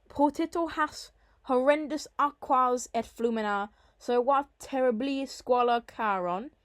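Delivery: measured reading of Latin poetry; Latin verse recitation. Shown as a demonstration. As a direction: recite the Latin line for a class. Reads the Latin verse aloud.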